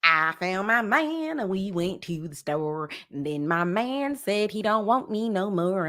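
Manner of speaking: lightly hammed-up country twang, half sung; mock country song voice. Host mocking the singer's country sound, lightly hammed. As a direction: parody a twangy country ballad. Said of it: "it's a little too country".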